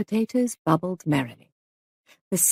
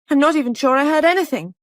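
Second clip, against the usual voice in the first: much higher, loud desperate cry; 8 semitones higher, 6 dB louder, faster than usual. A narrator's reading. Molly crying out at the sergeant, high and loud. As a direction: break under the questioning. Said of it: "cried Molly".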